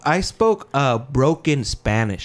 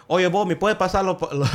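higher, a hint of Caribbean Spanish lilt; Caribbean Spanish accent; 5 semitones higher than usual. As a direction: ask mom in a mild Caribbean Spanish accent. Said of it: "Why the fuck do you sound like that? You sound Caribbean".

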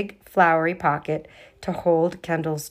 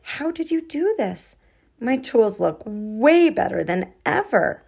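higher, amazed question; 4 semitones higher, 3 dB louder than usual. Acted. Girl amazed at her friends' work, surprised. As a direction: marvel at the transformation.

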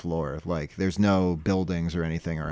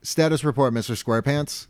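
brisk captain's order, a bit higher; 6 semitones higher than usual. Retold or imitated. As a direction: bark it like a ship's captain. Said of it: "He goes".

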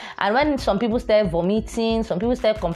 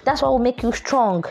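mom's voice; 5 semitones higher than usual. Retold or imitated. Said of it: "my mom will be like".

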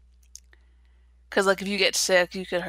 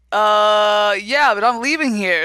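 Derek voice; 4 dB louder than usual. Retold or imitated. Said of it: "your Derek voice".

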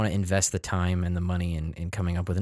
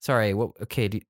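catty. Retold or imitated. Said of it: "that's what that sounds like to me".

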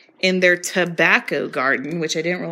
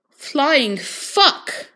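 high Southern accent attempt, slipping toward Australian; 6 semitones higher, 4 dB louder than usual. Reading a random book page aloud, wobbly Southern accent. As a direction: try Southern and land near Australian. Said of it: "in a Southern accent".

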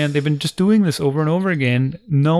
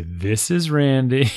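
slow and clear; much slower than usual. Shown as a demonstration. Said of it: "made everybody speak very slowly and clearly".

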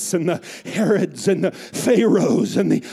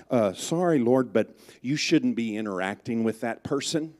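low, hushed nervous disciple; hesitant hushed objection; timid voice; 9 semitones lower, 7 dB quieter than usual. Retold or imitated.

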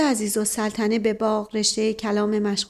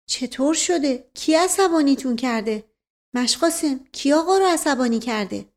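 higher, lightly voiced woman; concerned woman figure; 4 semitones higher than usual. Woman asking the servant who upset the master, lightly voiced and concerned. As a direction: demand to know with mild concern.

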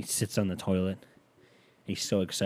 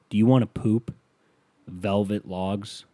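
upbeat pitchman selling fiber; commercial voice; 4 dB louder than usual. Pretend. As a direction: sell it like a TV ad. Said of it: "if I'm doing a Metamucil commercial".

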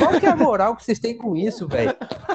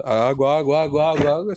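very low, monotone repeated call; water seller; 6 semitones lower than usual. Retold or imitated. Water vendor at the cathedral, low droning call. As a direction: drone the word like a bored hawker's loop. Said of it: "substituía as palavras por água".

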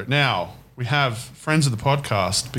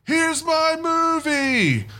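horror trailer voice; much slower than usual. Acted. Title in a trailer voice.

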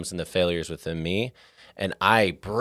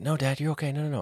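son's voice; 7 semitones higher, 4 dB quieter, faster than usual. Retold or imitated. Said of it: "every time he's like".

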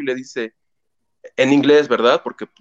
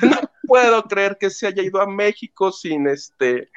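mock crying; 2 semitones higher, slower than usual. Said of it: "Le dice".

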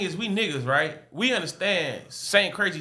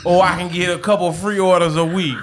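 entitled customer; 4 dB louder than usual. Pretend. Acting a customer's demands, laughing.

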